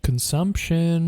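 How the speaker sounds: slow spooky whisper; drawn-out eerie whisper. Acted.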